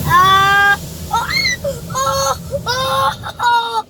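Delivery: high startled cries, then shaky. Real, not acted. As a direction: jump with fright and yelp. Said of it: "that scared me".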